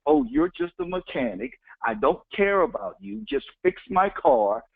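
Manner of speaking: talking down to a mechanic, high start; a lightly voiced snooty customer; condescending. To a mechanic, condescending and belittling. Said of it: "talked down to him like".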